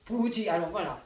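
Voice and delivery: loud, drawn-out storyteller's exclamation; exclamation théâtrale. Shown as a demonstration. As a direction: launch the tale emphatically, stretching it. Coach demonstrates the monologue's exclamation. (exclamation forte et traînante)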